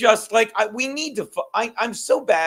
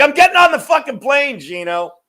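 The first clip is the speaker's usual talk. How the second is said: mock exasperated protest; 7 semitones higher, 5 dB louder than usual. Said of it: "You're like".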